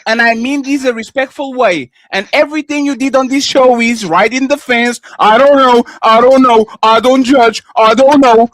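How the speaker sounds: emphatic, point-by-point read-out; reading aloud. Real, not acted. Debater reading a statement back to his opponent, emphatic read-out. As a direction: read it back as evidence against them. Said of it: "I'm going to read it again".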